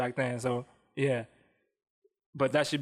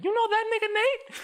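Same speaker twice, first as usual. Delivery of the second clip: high, put-on white girl voice. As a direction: chirp it like a white party girl. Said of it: "that's my white girl voice".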